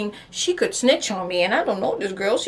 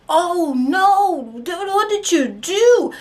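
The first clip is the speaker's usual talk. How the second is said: put-on gossiping teens; 6 semitones higher, much slower than usual. Gossiping teenagers.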